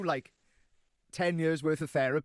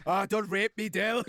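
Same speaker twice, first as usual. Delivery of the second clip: mock scream; 4 semitones higher, slower than usual. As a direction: imitate a friend's panicked cry, half-hearted. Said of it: "Nikki just screams in the carpet".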